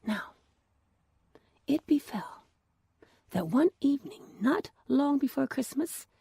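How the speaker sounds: calm storyteller reading a fairy tale; story narration. A narrator's reading. Narrator telling the elves and the shoemaker, gentle storytelling voice. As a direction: read it like a bedtime tale.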